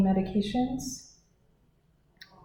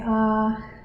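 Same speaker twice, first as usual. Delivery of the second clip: saying ahh. Shown as a demonstration. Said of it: "Okay, say".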